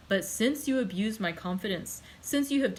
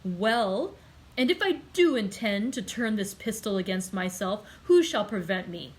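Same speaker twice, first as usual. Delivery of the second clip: violent outburst. Acted. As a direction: lash out at the one holding you back. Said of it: "changing his expression of calmness for one of violence".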